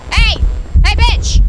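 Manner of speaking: loud high taunting yell; shouting. Real, not acted. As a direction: yell to bait the ghost. Luring the ghost out.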